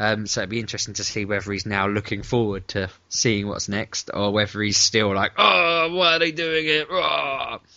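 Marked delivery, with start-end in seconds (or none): 5.4-7.6 high, loud, drawn-out angry grumble. Wondering whether an absent friend still sounds angry: imitating someone angrily complaining. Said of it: "That isn't his accent".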